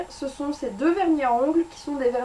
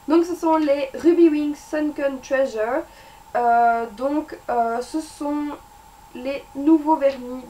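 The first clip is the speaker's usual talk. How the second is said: English accent; 2 semitones higher, 5 dB louder, slower than usual. Shown as a demonstration. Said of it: "Mon accent anglais".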